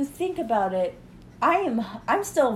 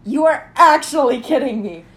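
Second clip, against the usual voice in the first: shocked disbelief; 3 semitones higher, 9 dB louder than usual. Real, not acted. Hearing the $395 toothbrush price.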